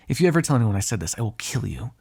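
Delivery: quick warning, dropping on the threat; threatening. Acted. Vampire warns hunter never to repeat this, threatening. Threat after admitting a soft thought.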